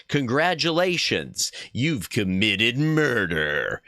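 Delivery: slow, dry congratulation; deadpan. Acted. Streamer joking about the witch's death, slow and deadpan. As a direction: deliver the joke bone-dry.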